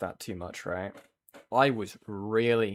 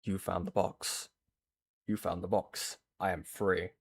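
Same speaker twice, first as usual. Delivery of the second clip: Pinhead; 4 semitones lower, 4 dB quieter than usual. Retold or imitated. Quoting the horror villain line, low menacing voice. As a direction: lightly play the Hellraiser demon. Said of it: "it was like Pinhead".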